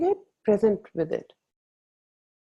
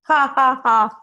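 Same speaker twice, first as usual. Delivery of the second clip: loud, high staged ha ha ha; forced laugh on request; 6 semitones higher, 5 dB louder, slower than usual. Pretend. Leading the group in a big laughter, staged laugh. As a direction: lead the room in a put-on laugh. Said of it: "Can we have a big laughter right here?".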